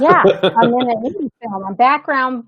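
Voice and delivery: casual, offhand, with a little laugh; mock blasé. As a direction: toss it off like it's no big deal. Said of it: "I'm, like, so blasé about it".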